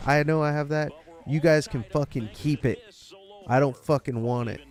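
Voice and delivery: angry customer outburst; angry rant at the lady. Retold or imitated. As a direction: tell her off loudly. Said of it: "scream this at the lady".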